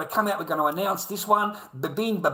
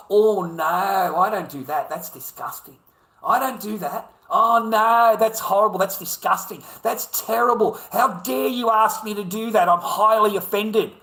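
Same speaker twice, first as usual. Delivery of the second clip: mock offended woman; 3 semitones higher, 4 dB louder than usual. Mimicking a woman refusing her partner, mock offended. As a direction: play her clutching her pearls in mock disgust.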